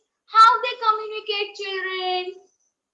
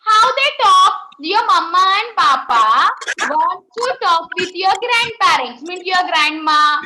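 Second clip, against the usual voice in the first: projecting to the class; 4 dB louder than usual. Real, not acted. Teacher asks class again, louder.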